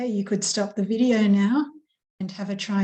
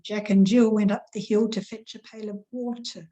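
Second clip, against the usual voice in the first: nursery rhyme recital. Shown as a demonstration. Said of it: "and another nursery rhyme".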